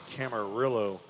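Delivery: Camarillo with a hard English L, "kam-uh-RILL-oh"; Anglicized Camarillo, ending "RILL-oh"; pronounced with L. Real, not acted. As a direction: say the double L in Camarillo as an L. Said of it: "Is it Camarillo or Camarillo?".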